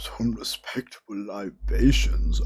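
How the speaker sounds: mock posh. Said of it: "you have to put on the voices".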